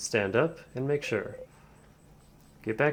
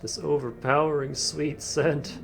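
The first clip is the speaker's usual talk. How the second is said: menacing villain. Acted. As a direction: savour every word like a predator. Villain king senses wishcraft.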